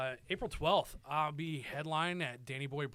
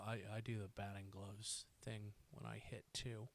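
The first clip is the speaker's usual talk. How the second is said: put-on softer, small nervous kid voice; shy kid; 5 semitones lower, 12 dB quieter than usual. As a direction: mumble it like an awestruck ten-year-old fan. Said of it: "turn into just the specialist kid".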